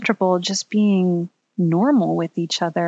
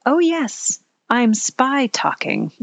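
put-on child voice; 5 semitones higher, slower than usual. Child Hazel quoted by mom.

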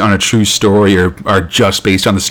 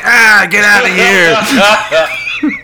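mock terrified scream; 11 semitones higher, much slower than usual. Sea monster bursts through wall.

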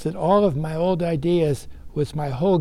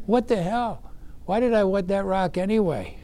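higher, amazed, bemused; surprised; 4 semitones higher than usual. Retold or imitated. Man surfacing, bemused at his old rock. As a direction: blurt it like you just surfaced.

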